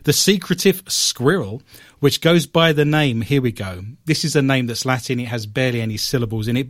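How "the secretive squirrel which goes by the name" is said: put-on light old British newsreel read; old English British accent. Host retries the tricky phrase, mock old British newsreel accent. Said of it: "I'm gonna do this in an old English British accent".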